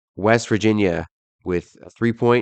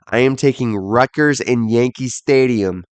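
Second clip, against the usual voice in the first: put-on New York accent. Podcaster picking Rutgers in Yankee Stadium, mild New York accent. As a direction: try your best New York accent. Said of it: "that was my best New York accent".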